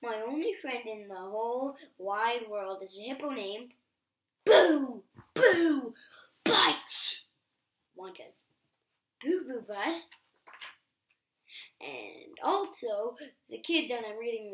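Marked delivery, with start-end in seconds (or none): 4.4-10.0 silly shouted name. Acted. Reader forced to say silly name.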